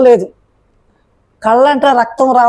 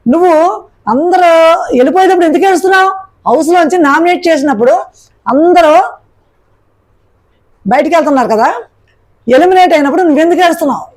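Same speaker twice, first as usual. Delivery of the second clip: higher, fast mock retort; retorting Seetha; 4 semitones higher than usual. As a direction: fire the accusing questions back quickly. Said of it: "Sita counter ఇచ్చింది".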